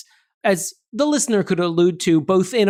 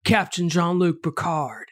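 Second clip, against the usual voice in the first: Nicolas Cage; 3 dB quieter than usual. Pretend. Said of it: "I'll be Nicolas Cage".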